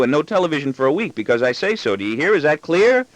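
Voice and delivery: high-pitched boy mimicking his scolding dad; extravagant mimicry. Young son mimicking his father's telling-off, extravagant rapid mimicry. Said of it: "in extravagant mimicry, and launches into talk too rapid for me to interrupt".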